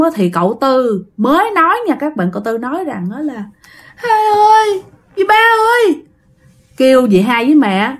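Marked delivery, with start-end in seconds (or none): 4.0-6.0 high, whimpering call to big sisters; tearful child. Acted. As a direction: call out like a crying little brother. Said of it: "cậu Tư vừa nói vừa khóc như vậy". (giọng em nhỏ mếu máo gọi chị)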